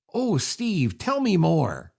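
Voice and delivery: dry mock interest, Oh drawn out; sarcastic. Shown as a demonstration. Host demonstrating the sarcastic contest phrase, dry mock interest. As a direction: fake fascination, tongue in cheek. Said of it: "let's do the sarcasm".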